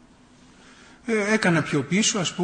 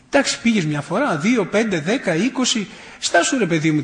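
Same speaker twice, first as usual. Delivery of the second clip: higher, bouncing count of objections; teasing; 4 semitones higher, 3 dB louder than usual. Retold or imitated. Grandson teases his grandmother about her yearly pilgrimage, needling. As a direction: needle her as the numbers mount. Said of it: "πήγα να πειράξω τη γιαγιά μου".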